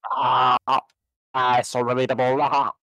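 mock squeal. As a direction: gush in a squeaky high fangirl voice.

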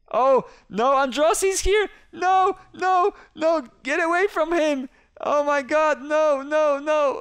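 high, loud, frantic pleading; panicked yelling. Real, not acted. Player yelling at the police officer Androssi, high frantic panic. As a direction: shriek at the cop to stay away. Cop character grabs his friend.

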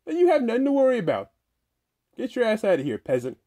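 high, impatient nagging voice; squeaky character voice. Acted. Same high character dismisses him.

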